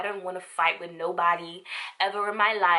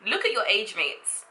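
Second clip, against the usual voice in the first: scolding. Shown as a demonstration. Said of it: "The first one is".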